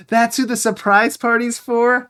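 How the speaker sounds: high, slowed disbelief; can't believe it, pitch rising; real shocked outburst; incredulous. Real, not acted. Shocked at the game.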